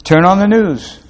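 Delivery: a preacher's emphatic charge; emphatic challenge. Acted. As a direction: call it out like a dare.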